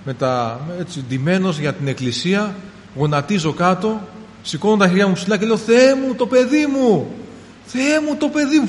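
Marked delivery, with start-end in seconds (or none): 5.6-8.7 high, loud cry to God; a father's remembered wail, much higher and louder; retold desperate cry. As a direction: cry out for the child, reliving it. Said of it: "Φώναζα, αδέρφια μου, τόσο δυνατά".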